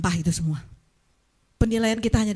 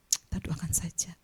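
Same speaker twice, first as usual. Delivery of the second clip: mock hushed piety; 4 semitones lower, 10 dB quieter than usual. Imitating hushed pious gossip.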